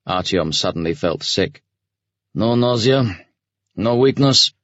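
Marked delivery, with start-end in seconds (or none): 2.3-4.5 gruff officer asking with care; considerate commander. A narrator's reading. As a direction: check on him, falsely kind. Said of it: "the commander asked considerately".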